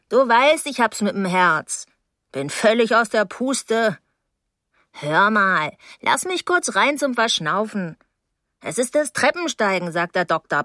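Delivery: plaintive, wheedling woman's voice with swooping pitch; complaining older neighbour. Acted. Mrs Deering pleads her bad heart, plaintive and wheedling. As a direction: wheedle to be let in, milking the ailment.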